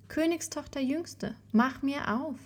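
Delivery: high, soft storybook call. A narrator's reading. Frog asks the princess to open up, high soft call. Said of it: "klopfte es zum zweiten Mal und rief".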